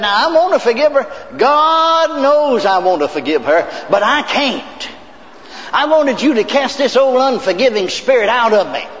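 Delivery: lightly voiced woman begging for help, close to crying; a hint of a tearful woman asking the preacher to pray; pleading woman, near tears. Woman's tearful plea retold.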